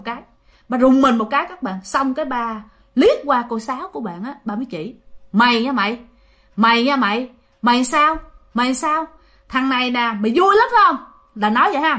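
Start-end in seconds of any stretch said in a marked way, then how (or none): 5.3-11.0 possessed angry rant. Retold or imitated. Possessed father glaring at his brother at Tet, menacing scold. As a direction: retell the possessed dad threatening his brother, mock menace. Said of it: "ba của bạn rất hung dữ nha".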